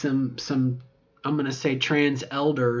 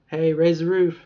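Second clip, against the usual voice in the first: loud whispered hype; playful whispered raise the roof; whispered cheer; 3 semitones higher, 5 dB louder than usual. Real, not acted. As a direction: hiss it like a party cheer.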